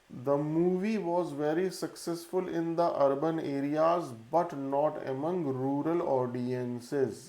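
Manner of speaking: reading a test sentence slowly and evenly for a class; slow dictation reading. Shown as a demonstration. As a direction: dictate it word by word so students can follow.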